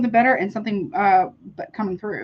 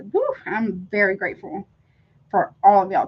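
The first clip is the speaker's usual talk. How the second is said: usual speaking voice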